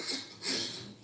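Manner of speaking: imitated voiceless sobs; silent sobbing. Crying in the woods and unable to breathe, imitated silent sobs. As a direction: gasp out sobs with no voice. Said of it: "I was like, silent".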